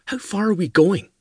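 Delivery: put-on high, urgent young lady's voice; young woman voice. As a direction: voice the lassie high and pressing. Meg asks Duncan.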